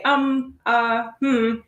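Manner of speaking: hesitant um and hmm, lightly demonstrated; filler sounds. Shown as a demonstration. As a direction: show the filler noises we make when stuck. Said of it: "we make these funny sounds and we say".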